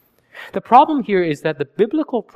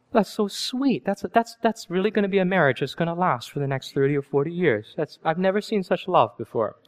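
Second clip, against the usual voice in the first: mock gushing; 4 dB quieter than usual. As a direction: fake admiration, dripping irony. Mocking onlookers' praise.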